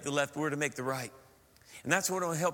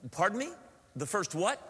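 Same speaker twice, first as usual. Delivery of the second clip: mildly baffled, rising question; politely confused; puzzled query; 3 semitones higher than usual. Retold or imitated. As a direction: ask as if you misheard. Baffled Americans query the directions.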